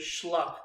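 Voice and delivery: wet slapping mouth noise; schluck sound effect. Retold or imitated. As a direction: make a wet flop noise. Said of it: "That's the noise it made".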